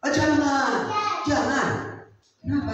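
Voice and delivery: high, loud protest; loud distressed plea; pleading family cry. Acted. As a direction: beg him not to go. Family protests pastor's death.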